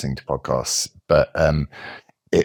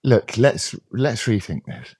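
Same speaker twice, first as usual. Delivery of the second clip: mock woke commentator; 3 semitones higher than usual. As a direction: parody a sanctimonious progressive, hammed up. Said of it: "Think of this".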